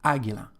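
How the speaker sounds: "águila" stressed on its first syllable. Shown as a demonstration. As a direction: put the stress on the opening "á" of "águila". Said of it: "the stress just on the first syllable".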